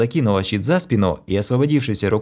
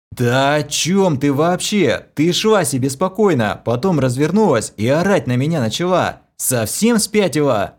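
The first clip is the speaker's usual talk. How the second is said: louder, higher, baffled; heated retort; 6 semitones higher, 3 dB louder than usual. A narrator's reading. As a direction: fire back in disbelief. Hero shouts back, baffled.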